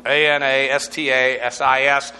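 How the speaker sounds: "A N A S T A S I S" said letter by letter; spelling out anastasis. Shown as a demonstration. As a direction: spell A N A S T A S I S out for the class. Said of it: "is anastasis".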